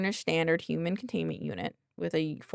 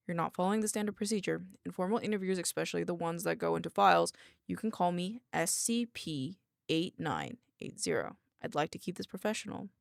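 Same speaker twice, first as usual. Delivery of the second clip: lightly deepened, softer character voice; deep woman's voice; 3 dB quieter than usual. Acted. Researcher corrects her interviewer's procedure, slightly deepened voice. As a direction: keep it a touch darker and formal. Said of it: "give her a deep voice".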